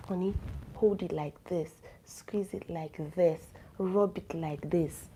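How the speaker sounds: slow, soft guiding words; gentle instruction. Shown as a demonstration. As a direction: coax him slowly through each step. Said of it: "show him on his own chest and say".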